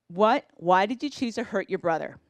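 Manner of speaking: calm question. Retold or imitated. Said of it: "That's all I asked".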